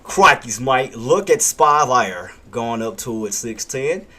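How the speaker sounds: put-on playful Steve Irwin-style Aussie accent; mock Australian wildlife-host accent; Australian accent impression. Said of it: "you sounded like Steve Irwin".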